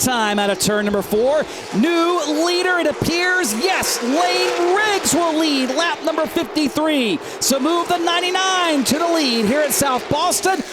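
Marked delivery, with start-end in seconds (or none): 1.8-10.6 excited race call. Real, not acted. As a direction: announce the new leader. Lead change call.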